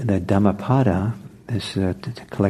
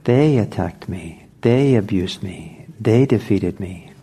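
"They" slightly stressed in each line. Shown as a demonstration. Teacher repeating the verse, They stressed. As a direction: lean on They, attacked, abused, defeated. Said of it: "the emphasis is important".

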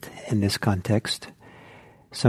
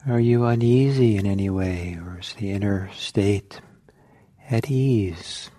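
unhurried meditation guidance with long pauses; guided meditation. Real, not acted. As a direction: guide listeners inward, leaving silence between phrases.

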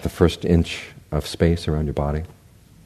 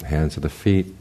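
spoonerism. Real, not acted. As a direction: slip of the tongue, words swapped. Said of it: "I suffer from spoonerisms".

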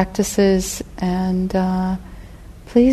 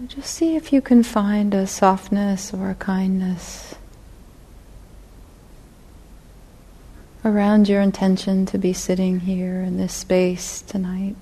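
unhurried guided reflection, long pauses between phrases; guided meditation; 4 dB quieter than usual. Real, not acted. Teacher guiding meditators to feel their intention to sit, guided meditation. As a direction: lead them gently inward, leaving space after each phrase.

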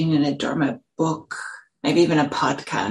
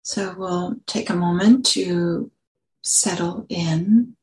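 unhurried guiding voice with long pauses; calm meditation teacher, phrase by phrase; guided meditation. Real, not acted. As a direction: lead them gently into settling, leaving space between phrases.

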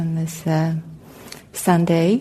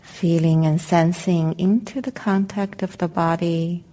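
calm, unhurried meditation guidance with long pauses; guided meditation; 5 dB quieter than usual. Real, not acted. Meditation teacher helping the group settle into their seats, calm guided meditation. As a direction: guide them gently into arriving, leaving space between phrases.

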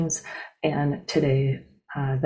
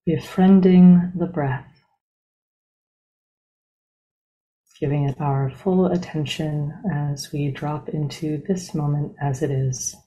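unhurried, evenly paced meditation guide, long silences between phrases; guided meditation. Real, not acted. Teacher leading a group into breath meditation, calm and spacious. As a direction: ease listeners into stillness, one measured phrase at a time.

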